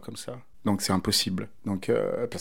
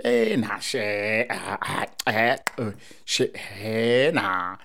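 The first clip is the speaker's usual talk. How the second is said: loose, musical Mozambican Portuguese filler sounds, lightly voiced; Mozambican Portuguese interjections; much slower than usual. Shown as a demonstration. Speaker demonstrating Mozambican filler sounds to an interviewer, lightly musical. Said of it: "je dis en portugais, donc du Mozambique".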